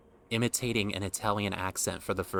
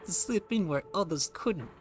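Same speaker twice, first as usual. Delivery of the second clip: put-on much higher urchin voice in a mixed British and Southern accent; 9 semitones higher than usual. Reading the urchin backstory, high British-Southern urchin accent. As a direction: squeak it out like an orphan from old British shows. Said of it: "a mix between British and Southern U S".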